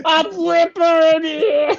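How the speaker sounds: slow, loud, high New York walrus; New York accent. Pretend. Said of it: "What would a New York walrus sound like?".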